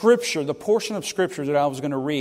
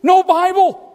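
much higher and louder, laughing disbelief; incredulous outcry; 13 semitones higher, 9 dB louder, slower than usual. Real, not acted. Preacher laughing with the congregation about owning no Spanish Bible, exclaimed. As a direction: exclaim it in mock horror.

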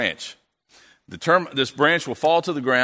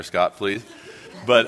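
ordinary talk, nothing marked

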